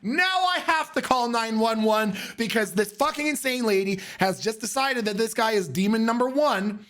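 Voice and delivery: 1 panicked. Retold or imitated. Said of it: "And I was like".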